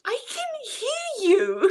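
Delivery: high, slow, strained mock yell; quoting her in a drawn-out, high cry; mock shout. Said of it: "she's like".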